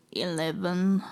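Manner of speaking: put-on mumbled like a moody eleven-year-old; snarky teen. Shown as a demonstration. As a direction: give it bored teen sass. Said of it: "Narky teen".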